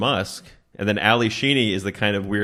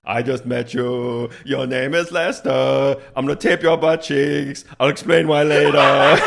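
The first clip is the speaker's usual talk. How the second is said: calm future stranger; 3 semitones higher, 4 dB louder than usual. Pretend. Acted time traveler meeting Lester.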